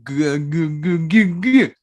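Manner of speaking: stuttering mid-rant. Real, not acted. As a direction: stumble over the word, riled up. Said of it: "since I'm already in a ranting, angry g".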